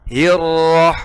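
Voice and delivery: hirrah said with a heavy full r. Shown as a demonstration.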